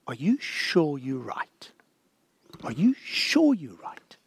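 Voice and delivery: still small voice. Acted. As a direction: let the conscience nudge gently, almost unheard. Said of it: "still, small, constant voice that says".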